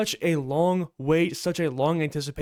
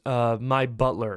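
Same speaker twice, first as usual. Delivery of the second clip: lower, mildly reluctant admission; 4 semitones lower than usual. Acted. Bruce admitting to Deadpool who the man pictured is, mildly reluctant. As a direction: admit it with a hesitant uh. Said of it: "Bruce reluctantly answers".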